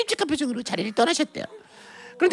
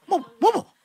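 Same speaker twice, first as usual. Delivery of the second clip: stammering, high-pitched disbelief; sputter, then demand an explanation; flustered mother; 9 semitones higher than usual. Acted. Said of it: "그분은 또 당황했죠".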